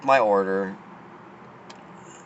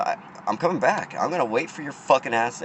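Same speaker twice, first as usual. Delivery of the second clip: higher, hard-edged warning; raised angry promise to wait for him; heated threat; 4 semitones higher than usual. Retold or imitated. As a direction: spit the threat out, dead serious. Threatening worker again, retold.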